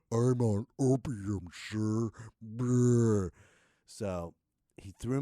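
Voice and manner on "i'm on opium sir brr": dazed. Retold or imitated. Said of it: "I was about to say".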